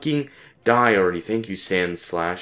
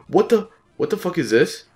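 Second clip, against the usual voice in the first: high, louder, stuttered start; real raised-pitch outburst at the game; exasperated disbelief; 10 semitones higher, 5 dB louder than usual. Real, not acted. Player wanting the encounter killed, exasperated.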